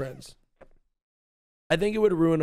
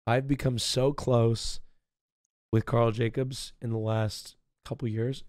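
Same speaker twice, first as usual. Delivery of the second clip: dreamy; 4 semitones lower, slower than usual. Real, not acted. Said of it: "Am I getting weird?".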